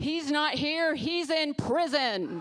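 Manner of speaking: high, proud, triumphant, victorious tone. Quoting him grabbing the microphone after his sunday school teacher whispered; retelling a triumphant announcement. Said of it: "grabs the microphone triumphantly and says".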